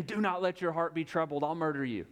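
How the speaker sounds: understated mock-menacing command, rattled off; mock threat. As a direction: pretend to threaten them, without shouting. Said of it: "grabbing them by the throats and saying".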